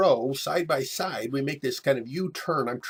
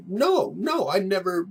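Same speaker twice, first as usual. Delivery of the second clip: much higher, louder, mock-frightened; panicked denial; 7 semitones higher, 5 dB louder than usual. Scared kid denying the gang's charge, high and panicked. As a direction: squeak out the denial.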